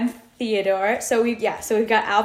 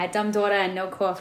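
softer Jersey "aw" vowels; Jersey accent; 5 dB quieter, faster than usual. Shown as a demonstration. Repeating a friend's catchphrase, in a softer Jersey accent. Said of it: "like, the aw sound".

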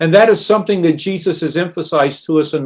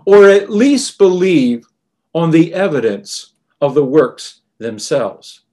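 final appeal. Retold or imitated. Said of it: "an almost final appeal".

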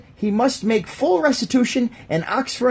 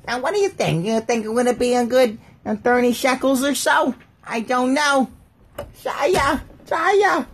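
lightly voiced haggler calling Jaya; 4 semitones higher than usual. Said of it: "the Jaya voice".

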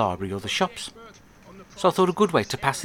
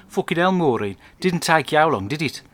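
put-on drunk Mister White; 4 semitones higher, 4 dB louder than usual. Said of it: "and he says to Mum".

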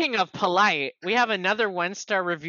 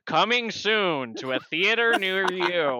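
slow, drawn-out trailer voiceover; mock coming-attractions voice; trailer announcer; slower than usual. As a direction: announce it like an old VHS preview. Quoting old VHS trailer.

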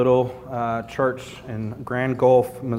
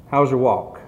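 put-on southern accent; 4 dB louder than usual. Preacher imitating Bible college peers, southern accent. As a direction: play a southern church friend, lightly. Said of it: "I always do it in a southern accent".

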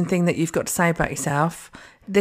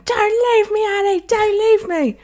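hammed-up, high-pitched plea; melodramatic soap acting; 4 dB louder than usual. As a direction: wail it like a soap deathbed scene. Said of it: "I was basically auditioning for EastEnders".

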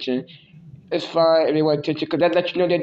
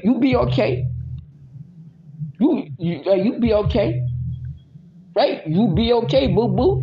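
sing-song catchphrase; 5 semitones higher than usual. Acted. Cooing catchphrase to partner.

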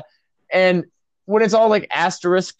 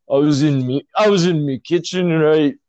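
put-on Glasgow accent. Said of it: "Just just channel Limmy".

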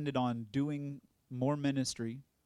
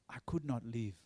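whispered repeat; 3 semitones lower, 5 dB quieter than usual. Retold or imitated. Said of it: "He said".

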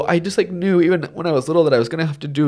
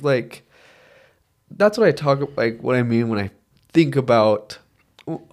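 near tears. Real, not acted. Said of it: "this goddamn movie just truly ruined my life".

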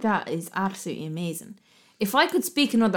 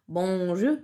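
lightly hammed-up French accent; drawn-out French greeting, imitating a classroom performance. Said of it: "I put on the whole accent".

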